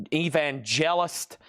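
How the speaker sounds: "evangelist" stretched out slowly, each syllable drawn long; slow odd pronunciation. Shown as a demonstration. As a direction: linger on "evangelist" as if savouring it. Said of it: "I don't know why I'm saying it like that".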